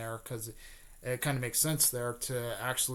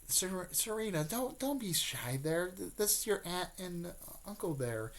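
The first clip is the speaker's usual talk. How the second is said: put-on higher, softer voice, as to a child; gentle coaxing; 6 semitones higher, 6 dB quieter than usual. Mother introducing shy Serena to her aunt and uncle, gently coaxing. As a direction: softly draw out a shy kid, pitched up.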